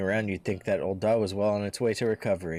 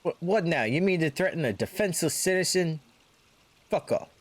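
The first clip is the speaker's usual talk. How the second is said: indignant thug; 9 semitones higher than usual. Acted. Thug confronted by crowd.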